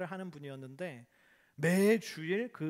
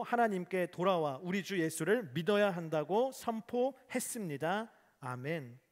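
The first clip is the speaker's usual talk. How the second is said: louder, solemn reading of the verse; scripture reading; 2 semitones higher, 4 dB louder than usual. Acted. Pastor reading Acts to the congregation, solemn read-aloud. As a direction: read the passage aloud with weight. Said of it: "우리 함께 읽어보겠습니다".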